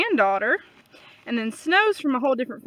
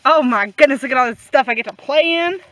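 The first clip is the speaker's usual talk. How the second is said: put-on excited baby goat voice; 8 dB louder, faster than usual. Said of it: "He's like".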